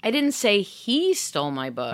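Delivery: "he" stressed, rest even. Shown as a demonstration. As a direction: lean on "he". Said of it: "stress the subsequent word".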